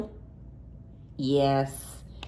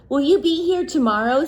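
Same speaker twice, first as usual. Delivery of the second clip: put-on children; 6 semitones higher, 3 dB louder, faster than usual. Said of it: "said the children".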